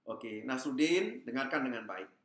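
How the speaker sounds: calm him with a smile; God smiling as he answers; gentle smile. Acted. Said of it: "Tuhan dengan tersenyum menjawab".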